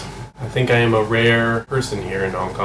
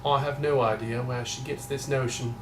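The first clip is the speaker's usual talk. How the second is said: softer, attempted British accent; put-on British accent; 2 semitones higher, 10 dB quieter than usual. Denying to viewers that he wants to be British, mock British accent. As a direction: try a not quite convincing British accent. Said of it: "not quite sure if that accent works".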